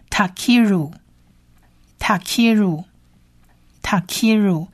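"Takiru" said slowly as ta-kee-ru, repeated; Hebrew word pronunciation. Shown as a demonstration. Teacher puts the whole word together for learners, slow pronunciation demo. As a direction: model "Takiru" with space after each repetition. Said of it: "所以这整个字发起音来就变成是".

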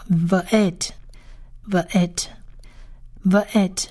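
Va'et said slowly, with pauses between repeats; teacher's slow, spaced-out Va'et; pronunciation demo. Shown as a demonstration. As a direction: model "Va'et" carefully for learners. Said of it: "这四个字怎么念呢".

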